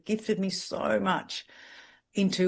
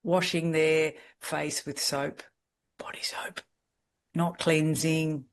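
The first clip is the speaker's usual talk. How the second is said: whispered, slow, aghast; hushed shocked whisper; hushed disbelief; slower than usual. Real, not acted. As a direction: breathe it out in disbelief.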